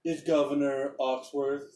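proud little governor bragging; governor's voice. Acted. Governor greets the arriving party, boastful. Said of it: "and he goes".

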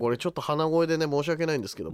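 stuffy-nosed apology; nasal from rhinitis. Real, not acted. Host apologises to listeners for hay-fever nose, nasal voice. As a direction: talk through a congested nose.

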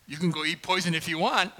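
lightly voiced smiling wife; imitating smiling wife. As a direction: give permission like a smiling guilt-trip. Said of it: "with a smile on her face".

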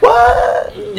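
put-on very high squealing girl voice; shocked girl. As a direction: shriek it like a stunned little girl. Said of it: "a girl looked at me like".

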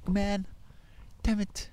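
high, breathy frustrated whine; mock despair. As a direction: sigh it out, a little defeated. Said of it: "I'm like".

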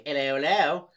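a hint of an English bloke; lightly put-on English accent. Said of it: "like, an English guy".

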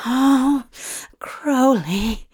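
low whispered murmur close to the ear; deep rough murmur. A narrator's reading. Crowley murmuring in his lover's ear, deep and rough. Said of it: "Crowley murmured in his ear, his voice deep and rough".

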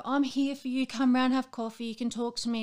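imitating friends saying they're there for you; mock friendly offer. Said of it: "people say".

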